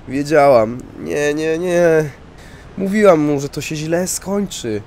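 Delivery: widow crying out high and loud in grief; distraught widow. Acted. Widow hearing of husband's murder, loud anguished cry.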